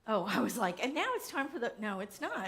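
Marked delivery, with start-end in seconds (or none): 0.8-1.7 higher-pitched segment announcement; announcer intro. Real, not acted. Host starting to introduce the next segment, announcing. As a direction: announce it brightly up high to the room.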